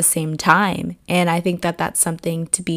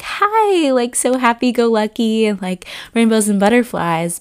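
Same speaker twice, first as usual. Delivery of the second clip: fake cheerful; 4 semitones higher than usual. Mocking an overly cheerful greeting.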